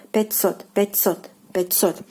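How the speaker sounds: пятьсот stressed on the final O, "pit-SOT". Shown as a demonstration. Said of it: "The stress falls on the, uh, O here".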